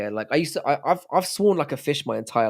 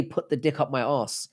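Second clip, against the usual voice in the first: softer, classy English accent; 5 dB quieter than usual. Shown as a demonstration. Streamer proving crude words sound classy, classy English accent. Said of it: "sounds classy in an English accent".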